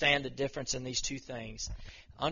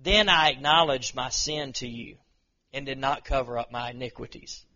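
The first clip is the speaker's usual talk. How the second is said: louder, opening strong on Then; preacher booming David's confession; proclaiming; 6 dB louder than usual. Acted. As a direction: declare the confession boldly. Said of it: "He says".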